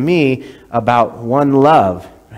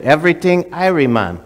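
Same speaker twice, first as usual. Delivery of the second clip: put-on a second try at a Jamaican accent; the visitor repeats the phrase, trying the Jamaican lilt; 5 semitones higher than usual. The visitor copying David's correction, in a Jamaican accent. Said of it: "Say it like this".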